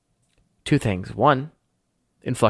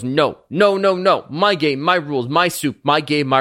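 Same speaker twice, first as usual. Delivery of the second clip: insistent, aggressive chant; stubborn, worked-up refusal; pretty aggressive. Acted. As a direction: hammer out each short phrase. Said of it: "like, pretty aggressively goes".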